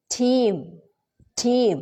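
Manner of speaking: "Team" with a crisp aspirated t. Shown as a demonstration. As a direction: say "Team", tongue behind the teeth. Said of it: "It's not the same".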